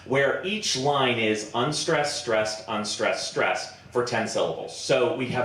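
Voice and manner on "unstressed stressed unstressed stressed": slow alternation of "unstressed" light and "stressed" weighted; iambic beat. Shown as a demonstration. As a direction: say "unstressed, stressed" slowly in a steady alternating rhythm. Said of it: "something called iambic pentameter".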